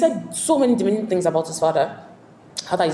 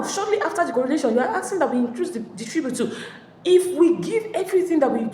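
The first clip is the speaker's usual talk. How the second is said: raised, pleading complaint from the elders; 5 semitones higher than usual. Retold or imitated. Village elders begging the king, rising pleading protest. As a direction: protest the unfair tribute, voice lifted high.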